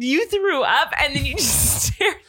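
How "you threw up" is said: surprised. Retold or imitated. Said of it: "And I said".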